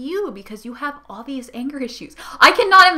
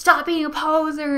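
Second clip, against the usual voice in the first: mock, half-voiced, angry screaming outburst, like a rant; 4 semitones higher than usual. Retelling an angry gamer's online insults: imitating someone screaming. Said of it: "He just started screaming".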